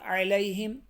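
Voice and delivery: علیہم with a plain alif instead of عین; wrong alif. Shown as a demonstration. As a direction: show علیہم without the throat عین. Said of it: "علیہم الف کے ساتھ نہ پڑھیں".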